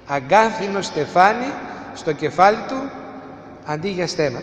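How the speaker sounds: slow, weighty repetition of "Αγκάθινο στεφάνι στο κεφάλι του", dropping quiet on "αντί για στέμα"; slow and deliberate. Shown as a demonstration. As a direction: lay out each phrase one by one so it sinks in. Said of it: "σας το λέω ένα-ένα για να καταλάβετε".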